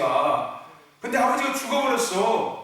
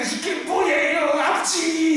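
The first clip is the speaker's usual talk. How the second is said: high, slow drawn-out whine; whining; 8 semitones higher, slower than usual. Retold or imitated. Believer whining to Father God, slow high whine. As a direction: stretch it into a plaintive moan. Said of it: "이러지 말고".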